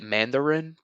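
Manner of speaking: hint of imitated Chinese accent; mock Chinese accent. Shown as a demonstration. Joking on how they would say it, in mock Chinese accent. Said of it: "as they would say it".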